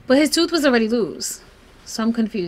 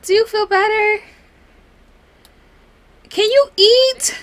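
louder, high-pitched coaxing; coaxing plea; 10 semitones higher, 4 dB louder than usual. Real, not acted. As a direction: plead up high, stretching each word. Pleading with game character again.

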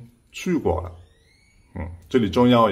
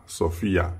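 Sophia with the stress on the i, so-FI-a; 4 semitones lower, 4 dB quieter than usual. Shown as a demonstration. Teacher showing students where Sophia's stress falls. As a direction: lean on the i of Sophia. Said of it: "重音在一上面".

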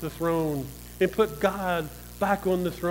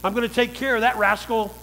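mock fed-up declaration; 3 dB louder than usual. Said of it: "get fed up with that and say".

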